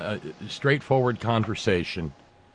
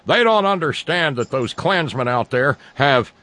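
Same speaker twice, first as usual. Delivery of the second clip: high, loud mocking impression of critics; sarcastic mock voice; 5 semitones higher, 4 dB louder than usual. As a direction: sneer it like a smug pundit. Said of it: "I'm being a sarcastic jerk".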